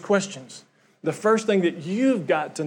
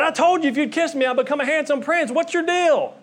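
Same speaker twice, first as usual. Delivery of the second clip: high, squeaky little frog calling out; muffled frog voice; 8 semitones higher than usual. Acted. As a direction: call up from inside a purse, small and high. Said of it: "you hear this muffled voice".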